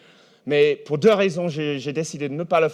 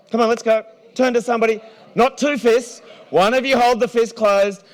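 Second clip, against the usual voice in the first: urgent urging; 9 semitones higher, 5 dB louder than usual. Real, not acted. Urging the crowd to start.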